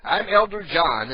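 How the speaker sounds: slow, mildly mock-formal introduction; young Mormon elder. Teen Mormon introduces himself at the door, slow mock announcement. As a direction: announce yourself slowly, lightly mocking a door-to-door missionary. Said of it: "the Mormons come to the door and they say".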